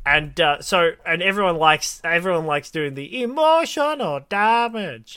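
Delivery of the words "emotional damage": drawn-out mock Asian accent; Asian accent impression. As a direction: stretch it out in a put-on Asian accent. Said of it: "trying to sound like an Asian person".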